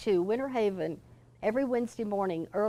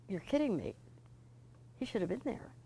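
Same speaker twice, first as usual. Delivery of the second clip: hushed disbelief; 9 dB quieter, faster than usual. Retold or imitated. Shocked call from the bank.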